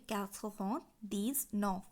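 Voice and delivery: "quatre vingt dix-neuf" slowly, in separate chunks; French pronunciation demo. Shown as a demonstration. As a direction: set "dix" and "neuf" apart for learners. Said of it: "নিরানব্বই উচ্চারণ হবে".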